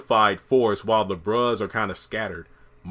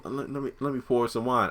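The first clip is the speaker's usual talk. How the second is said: smooth Mike; 5 dB quieter than usual. Acted. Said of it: "Mike's trying to be all smooth".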